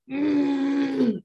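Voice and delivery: high drawn-out mock hum; proud strutting hum. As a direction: hum like you're the bee's knees. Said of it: "we were literally, like, walking around".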